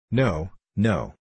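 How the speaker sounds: lightly voiced squeaky heckler; a touch of squeaky protest; high squeaky voice. A narrator's reading. Witherspoon calls out against the speaker, lightly squeaky. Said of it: "squeaky voice".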